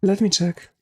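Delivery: hoarse, worn-out voice; a voice tired and hoarse from talking. Real, not acted. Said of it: "I'm losing my voice".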